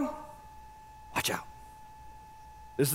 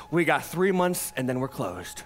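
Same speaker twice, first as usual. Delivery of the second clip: struggling owner; 7 semitones lower, 3 dB quieter than usual. Retold or imitated. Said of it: "every owner the same story".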